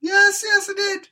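high, loud yes yes; insistent. Real, not acted. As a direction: insist it did. Silly argument about rain.

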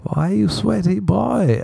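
high-pitched, drawn-out teasing chant; hammed-up high female voice; imitating the woman. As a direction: mimic her in a slow, high sing-song. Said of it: "And she kept saying".

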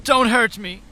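high, small frightened begging; cowering plea. Acted. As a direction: whimper it as if cornered. Mike begs Agent J.

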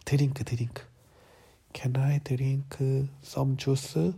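whispered, halting English prompt; feed the words slowly in a whisper. Acted. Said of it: "더듬더듬 말했지".

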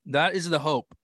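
talking around an ice cube; words muffled by ice in mouth. Real, not acted. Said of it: "I shouldn't put ice in my mouth".

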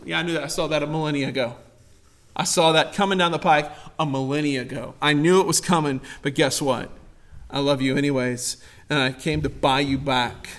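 low, soft, unfazed voice of God; unshocked, calm. Acted. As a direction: answer quietly, completely unruffled. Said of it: "He's not shocked by your sin".

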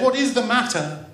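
high, anxious motherly question; alarmed mother. Acted. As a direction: ask in acted alarm. Alarmed mother asks crying children.

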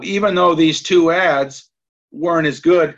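throat catching between coughs; coughing fit. Real, not acted. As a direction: talk through a coughing spell. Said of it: "I'm sorry I'm coughing so much".

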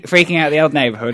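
laughing mock English accent. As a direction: put on a jokey English accent. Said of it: "saying it in an English accent".

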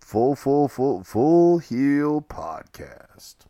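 high, loud, drawn-out announcer call; hammed-up announcer. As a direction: boom it like a ring announcer. Announcing podcast name.

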